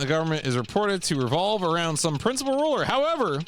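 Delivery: formal, measured briefing narration; mission briefing read. Acted. Player reading assassination orders aloud, formal briefing read. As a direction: read it out like official orders, pausing between phrases.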